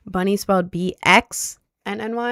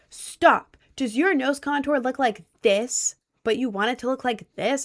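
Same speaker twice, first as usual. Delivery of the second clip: mock attention-grabbing hook, pitched up; imitated video host; 4 semitones higher than usual. Retelling an Instagram nose contour tutorial, lightly imitated host.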